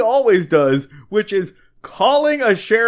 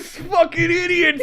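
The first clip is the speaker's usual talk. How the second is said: mock derision; 8 semitones higher than usual. Sidekick character mocking the family.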